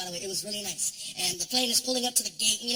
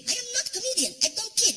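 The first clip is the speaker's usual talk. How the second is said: much higher, cheerful driver brushing it off; Saudi driver voice; 10 semitones higher than usual. Retold or imitated. Driver reassuring nervous comedian in the SUV, high and breezy. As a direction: soothe him with a sing-song it's okay.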